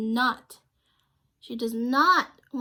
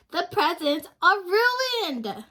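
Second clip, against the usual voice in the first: loud, slow, higher lament; upset shout; 6 semitones higher, 5 dB louder than usual. Acted. A child shouts in dismay at the ruined party. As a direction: cry out that it's all spoiled. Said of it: "children voiced in story".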